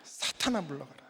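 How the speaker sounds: whispered command fading away; acted whisper, very soft; hushed rebuke. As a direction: mutter the banishment under your breath. Same rebuke repeated under breath.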